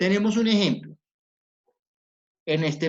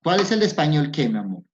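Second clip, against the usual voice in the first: louder, faster question back; quick louder query; 6 dB louder, faster than usual. Real, not acted. Teacher presses the pupil to finish her question, quick and louder.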